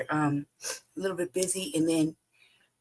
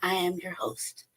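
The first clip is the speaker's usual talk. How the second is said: normal talking voice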